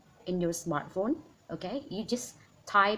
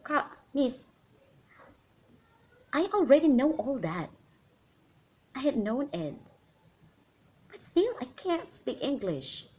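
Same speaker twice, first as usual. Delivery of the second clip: imitated complaining student; 4 semitones higher than usual. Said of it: "ada lagi yang bilang".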